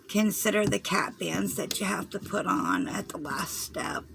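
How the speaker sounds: hoarse, fading voice; losing voice. Real, not acted. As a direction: voice giving out from a cold. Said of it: "I've been losing my voice".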